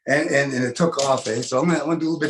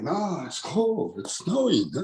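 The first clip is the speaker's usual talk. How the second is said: put-on whiny kid; 5 dB quieter, slower than usual. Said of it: "Kids say".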